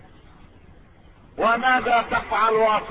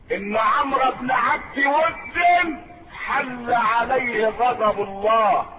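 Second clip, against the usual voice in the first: fervent preaching; 4 semitones higher, slower than usual. Real, not acted. Preacher declares God's wrath on the enemy, rising fervour. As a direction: preach with rising force, drawing out the final words.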